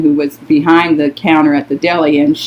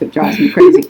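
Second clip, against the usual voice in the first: exasperated squeal; faster than usual. Real, not acted. Exasperated aside about Facebook.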